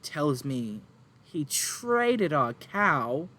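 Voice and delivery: high, loud, tearful mother pleading; distraught farm woman. Acted. Farm woman to adventurers, upset and near tears. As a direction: play the frantic farmwife near tears.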